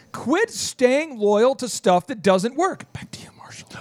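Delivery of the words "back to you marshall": whispered handoff. Real, not acted. Host whispering a handoff to co-host Marshall, whisper. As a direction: breathe it out unvoiced, no tone.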